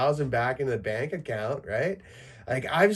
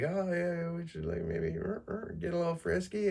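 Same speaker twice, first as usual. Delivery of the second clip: soft, higher teasing partner voice; mock partner; 6 semitones higher, 6 dB quieter than usual. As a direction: coax him lightly, soft and high. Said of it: "she'll, like, wanna be like".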